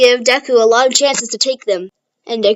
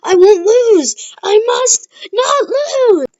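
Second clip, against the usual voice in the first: determined inner shout; 8 semitones higher, much slower than usual. Retold or imitated. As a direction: fight against mind control with all you have. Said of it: "his mind is like".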